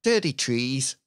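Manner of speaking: put-on Irish accent catchphrase. Shown as a demonstration. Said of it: "try to do an Irish accent".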